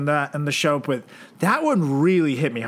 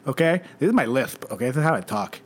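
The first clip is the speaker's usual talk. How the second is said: lisp voice. Acted. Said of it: "I've always had a lisp".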